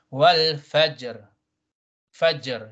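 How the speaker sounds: "fajr" with a bounced J before the R; carefully sounded ending of "wal fajr"; qalqala on jim. Shown as a demonstration. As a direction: echo the J in "fajr". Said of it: "Jim is a qalqala".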